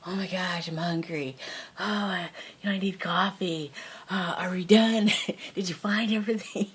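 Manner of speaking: playfully put-upon grumbling, breaking into laughter; mock impatience. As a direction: imitate a complaining husband. Imitates impatient husband in store.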